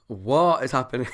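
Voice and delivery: laughing disbelief. Real, not acted. Laughing at slow dance scene.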